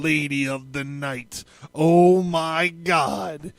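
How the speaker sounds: grave, measured reading of an occult scripture; solemn ritual reading. Acted. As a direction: intone it like a rite before an altar. Reads ritual text aloud.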